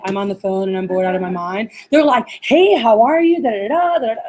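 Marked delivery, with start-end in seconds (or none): 0.1-1.7 low monotone, bored phone voice. Retold or imitated. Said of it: "They're not like". 2.4-4.2 very animated. Retold or imitated. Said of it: "they're, like, very animated on the phone".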